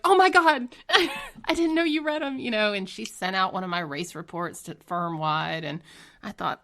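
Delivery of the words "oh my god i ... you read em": loud, high-pitched laughing shock; squealed, laughing disbelief; mortified surprise. Retold or imitated. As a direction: replay being caught out, voice shooting up. Retold shock at boss reading blogs.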